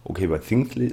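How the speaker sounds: lisping on Things; soft lisped s in Things; slushy sh for s. Real, not acted. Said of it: "lispel ich wirklich ein bisschen, da habt ihr recht".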